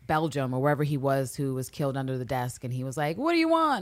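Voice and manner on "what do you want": mock scared question. Victim's frightened question quoted.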